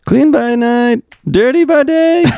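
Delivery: cartoon New York voice; New York accent. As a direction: ham up a New York tagline. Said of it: "better New York accent than you had".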